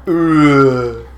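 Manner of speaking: guttural zombie grunt; zombie groan. Retold or imitated. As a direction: grunt it like the undead. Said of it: "Aldo does a perfect impression of a zombie".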